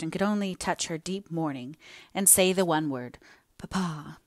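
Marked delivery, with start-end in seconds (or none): 3.6-4.2 choked. A narrator's reading. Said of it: "she choked in the effort".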